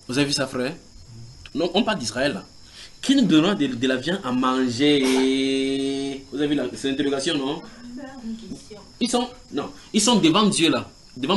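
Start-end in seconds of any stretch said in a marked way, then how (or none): 3.0-6.2 mock whine. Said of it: "recommencèrent à pleurer et dire".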